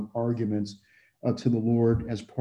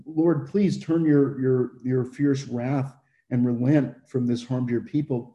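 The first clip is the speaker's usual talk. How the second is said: pleading. Retold or imitated. Moses begging the Lord to relent, earnest plea. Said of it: "And so he says".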